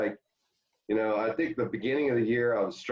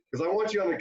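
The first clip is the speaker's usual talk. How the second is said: Tommy Lasorda impression; 9 semitones higher, much faster than usual. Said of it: "He goes".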